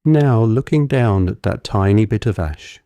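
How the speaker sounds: measured visualization voice with long pauses; guided meditation. Real, not acted. Guide talking a listener through shrinking an image, calm guided meditation. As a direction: lead them gently through it, phrase by phrase.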